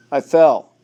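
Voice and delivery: gasping for air after a fall; breathless, gasping the words out; out of breath. A narrator's reading. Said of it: "he gasped".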